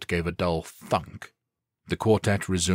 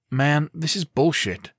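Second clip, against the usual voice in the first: higher, slow exasperated complaint; piping up; 9 semitones higher, 4 dB louder than usual. A narrator's reading. Dalton griping at the empty medical center, exasperated. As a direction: blurt it out, fed up. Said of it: "Dalton piped up".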